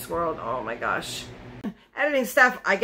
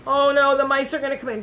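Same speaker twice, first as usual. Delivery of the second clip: higher, louder mock panic over mice; mock freak-out; 5 semitones higher, 3 dB louder than usual. Woman imitating her own panic about mice, mock alarm. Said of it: "I'm all freaking out like".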